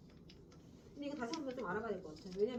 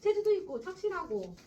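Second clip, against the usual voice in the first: put-on higher old man's praise in dialect; proud grandfather; 4 semitones higher, 5 dB louder than usual. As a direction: brag about the favorite grandson.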